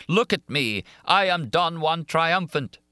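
high, dramatic narrated roar. A narrator's reading. Monster showing his face to Christine, roared. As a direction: roar it out in triumph, drawing out the last words. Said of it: "he roared".

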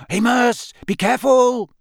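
high, loud anxious call; warning. A narrator's reading. Wizards watching Amos march into the trees, warning call. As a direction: call out to caution a colleague. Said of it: "said a few of the wizards warningly".

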